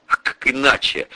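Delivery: ordinary delivery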